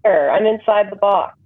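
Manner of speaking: choppy, muffled line like underwater; bad connection, warbling. Real, not acted. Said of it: "you live in an underwater hell".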